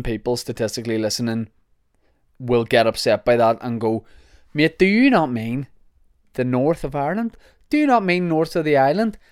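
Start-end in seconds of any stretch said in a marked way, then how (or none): 4.5-9.2 indignant objector. Acted. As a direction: act out a put-out listener querying the wording. Acting out listeners upset by the name.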